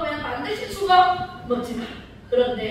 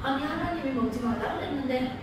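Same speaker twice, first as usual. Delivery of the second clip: hesitant Eve; 7 dB quieter, faster than usual. Retold or imitated. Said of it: "이렇게 얘기해요".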